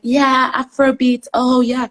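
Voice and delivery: mock trendy enthusiasm. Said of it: "now everyone's all like".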